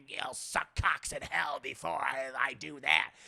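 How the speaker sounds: low demon growl, lightly done; lightly voiced demon. Possessed boy taunting the priest, lightly voiced demon. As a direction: sneer it like a demon. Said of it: "Demon is like".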